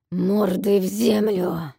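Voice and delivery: loud, slow roared order; roaring dragon. A narrator's reading. Dragon roars at the kneeling captives, loud roar. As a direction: roar it like a beast.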